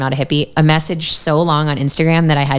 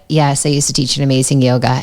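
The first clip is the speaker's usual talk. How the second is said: polite but reluctant reply. Retold or imitated. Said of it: "she just wants to go to any yoga studio and not be known".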